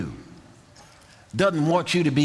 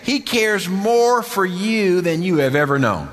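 fervent preaching; 4 semitones higher, 3 dB louder than usual. Real, not acted. Preacher assures congregation of God's care, fervent preaching. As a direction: preach it with stretched, emphatic key words.

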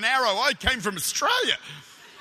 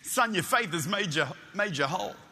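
a hint of a gentle Jesus, speaking down to him; 5 semitones lower than usual. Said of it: "And he said".

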